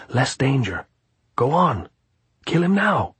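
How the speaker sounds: high-pitched insistent gypsy; urging. A narrator's reading. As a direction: push the listener, pitch rising to the end. Gypsy keeps urging the killing.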